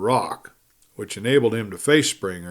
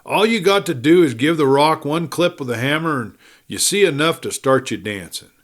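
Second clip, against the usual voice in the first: eager enthusiasm; 4 semitones higher than usual. Acted. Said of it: "with a contagious enthusiasm".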